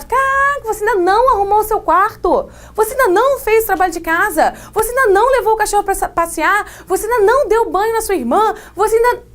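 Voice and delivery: high, rapid scolding mom rattling off chores; nagging mother. Acted. Mother scolding her kid about chores, high and fast. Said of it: "Mãe, ela".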